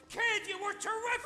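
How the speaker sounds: "terrific" thrown up high and loud with delight; excited praise. Acted. Old friend gushing praise after the show, high loud excited. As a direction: gush it at her, beaming.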